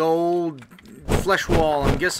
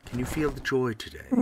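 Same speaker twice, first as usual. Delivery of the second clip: quicker, softer character take; recalled character voice; 4 dB quieter than usual. Acted. Player finding his voice for the joy line, lightly put-on and quieter. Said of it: "I think I did his voice like this".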